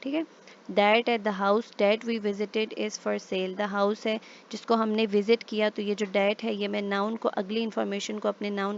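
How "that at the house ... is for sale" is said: slow example reading. Shown as a demonstration. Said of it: "reading the example sentence aloud".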